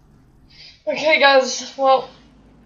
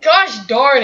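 frustrated; 3 semitones higher, 4 dB louder than usual. Real, not acted. Losing a gunfight, frustrated outburst.

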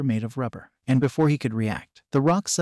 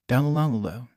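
a rolling, taunting villain laugh. Acted. World laughing as he charges the three warriors, villain laugh. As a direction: chuckle before charging in. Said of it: "he laughed".

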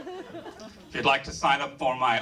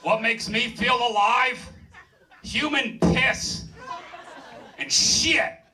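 very high-pitched comic character voice; Jim Pervert; 11 semitones higher than usual. Acted. Character introduces himself in a monologue on feeling alive, high put-on voice. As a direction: put on a much higher voice for an oddball introducing himself. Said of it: "Hello, my name is Jim Pervert".

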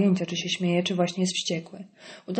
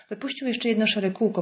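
ordinary delivery, nothing marked

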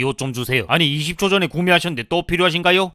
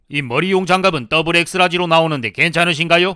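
mildly raised clerk voice; too loud; 2 semitones higher than usual. Acted. Clerk embarrassing a balding customer, slightly too loud. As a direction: carry it across the shop, a little loudly. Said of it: "좀 작게 좀 말해라".

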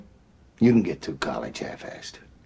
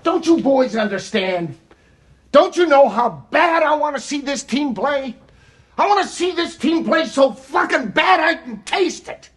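pleading shout, higher; halftime pep speech; 4 semitones higher than usual. Real, not acted. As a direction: beg them at full volume. Coach pleading loudly.

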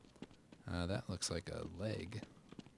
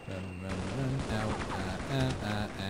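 being chased; 2 semitones higher, 4 dB louder than usual. Real, not acted. Fleeing enemies again, taking hits.

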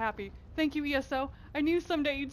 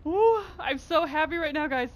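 louder, higher happy exclamations; excited squeals; 3 semitones higher, 6 dB louder than usual. Real, not acted. Gamer still squealing over her new mount. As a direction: gush with delight. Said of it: "with my screaming".

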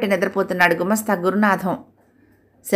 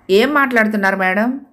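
angry question; 2 semitones higher than usual. Acted. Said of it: "కోపంగా అడిగాడు".

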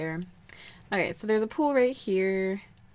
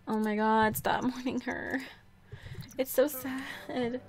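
pitying; 4 semitones higher, 4 dB quieter, slower than usual. Real, not acted. Pitying her grieving Sim.

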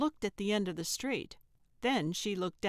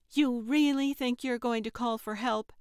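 higher, louder mocking snap; snapped; 4 semitones higher, 4 dB louder than usual. Trixie kicking away Gertrude's phone, snapping scornfully. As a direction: sneer it as you snap. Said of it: "Trixie snapped".

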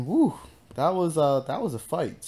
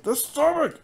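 mock anguished yell; 6 dB louder than usual. Same line, escalated.

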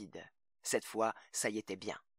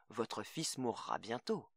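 slow, quiet menace; cold threat; 8 dB quieter, slower than usual. Acted. Greg threatens the mother quietly, cold and slow. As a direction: let it drop slowly and softly. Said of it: "dit-il".

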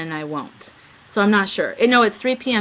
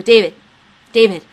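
louder urgent calls of the name; calling out; 9 dB louder than usual. Retold or imitated. Trying to get David's attention, calling out louder. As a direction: try to grab his attention. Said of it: "I go".

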